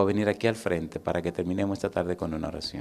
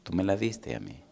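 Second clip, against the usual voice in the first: gentle voice of God; 7 dB quieter than usual. Retold or imitated. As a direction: reassure him tenderly, almost whispered. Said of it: "Me dice". (Dios consuela a Andrés, susurrando con ternura)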